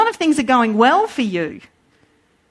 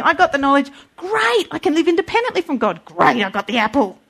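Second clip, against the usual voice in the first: defiant rebellion; 3 semitones higher, faster than usual. Acted. Voicing Adam and Eve rebelling.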